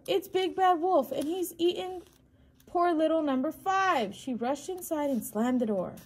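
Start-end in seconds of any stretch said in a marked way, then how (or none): 0.1-4.1 high, loud outraged cry; enraged duck. A narrator's reading. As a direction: cry out in horror as an angry mother duck. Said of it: "Missus Duck flew into a rage".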